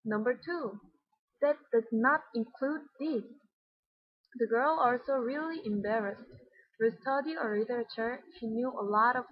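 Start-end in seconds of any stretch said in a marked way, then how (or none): 1.4-3.2 weight on every word of "That does not include this"; emphasize all of "That does not include this"; every word stressed, from "That" to "this"; whole sentence stressed. Shown as a demonstration. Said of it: "she emphasized the whole sentence".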